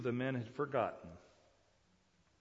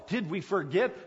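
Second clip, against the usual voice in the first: exclaiming; 8 semitones higher, 11 dB louder than usual. Retold or imitated. Acts out the Philistines' dismay.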